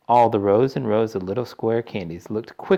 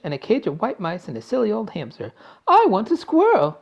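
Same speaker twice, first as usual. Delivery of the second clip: high, loud whining list building to a shriek; a child winding up to a full tantrum; spoiled brat tantrum; 9 semitones higher, 6 dB louder than usual. A narrator's reading. Spoiled Veruca lists her pets to her mother, whining.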